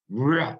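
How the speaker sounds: a short punchy rah, like a bandoneon accent; vocal accent burst. Shown as a demonstration. Teacher imitating the bandoneon accent for students, a sharp rah. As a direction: bark out one sharp syllable to show the accent. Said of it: "That's like a super accent".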